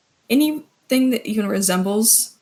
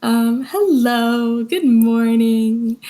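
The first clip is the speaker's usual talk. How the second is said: friendly hello; 4 dB louder, much slower than usual. Acted. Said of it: "Uh, sorry".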